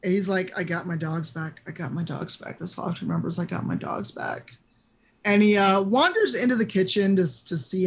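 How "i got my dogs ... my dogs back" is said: soft, weary self-consolation; deep-sigh resignation. Acted. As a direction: repeat it quietly like a calming mantra. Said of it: "He just sighs deeply, like the deepest of deep".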